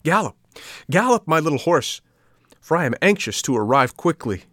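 high, loud cheering cry; joyful shout. A narrator's reading. Puppet riding the pigeon, cheering it on joyfully. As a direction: urge the bird on with glee. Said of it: "exclaimed joyfully".

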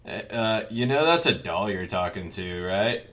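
low-key, casual delivery of the quote; nonchalant. Retold or imitated. Podcaster quoting an unbothered character at a door, nonchalant. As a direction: toss it off nonchalantly. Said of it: "he's just so nonchalant about everything".

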